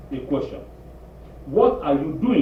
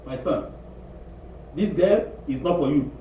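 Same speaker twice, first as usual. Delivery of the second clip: mother's warning; 3 semitones higher than usual. Retold or imitated. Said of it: "Mama said".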